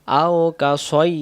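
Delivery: drawn out syllable by syllable; slow Quran-lesson recitation. Shown as a demonstration. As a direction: recite it slowly, stretching each sound. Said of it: "সাই হবে না".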